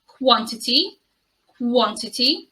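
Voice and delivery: "quantity" as KWON-ti-tee; rising, listed "quantity" for a learner; careful model pronunciation. Shown as a demonstration. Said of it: "demonstrate the similarities and differences".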